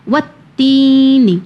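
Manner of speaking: With تینی with the تا sound drawn out, slow; lengthened ta. Shown as a demonstration. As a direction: stretch the تا in تینی, keep نون short. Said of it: "نون کو ہم نے نہیں کھینچا ہے".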